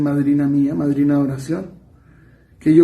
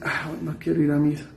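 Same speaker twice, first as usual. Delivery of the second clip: voz imitada perezosa; 7 dB quieter than usual. Acted. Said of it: "El enemigo puede imitar la voz de uno y decir".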